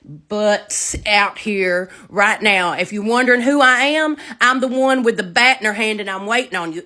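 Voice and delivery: loud, acted-out threat; re-enacted fighting talk; retold angry challenge. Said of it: "I was mad".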